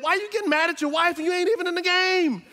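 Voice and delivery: amused disbelief; laughing tease. Real, not acted. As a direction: tease them through a laugh. Teasing football fans, laughing.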